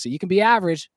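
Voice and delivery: high, punchy hype line; excited. Acted. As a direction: pump it up for the fans. Hyping the average dude plug.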